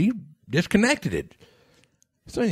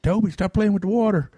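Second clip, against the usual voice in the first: mock holler, pitched up; half-hearted playful shout, higher than usual; 6 semitones higher than usual. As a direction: call out teasingly to a mischievous ghost. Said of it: "I just hollered in there".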